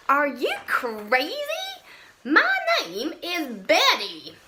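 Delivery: a put-on monster voice, offended; indignant monster. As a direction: snap back as an insulted monster. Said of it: "with a furious gaze".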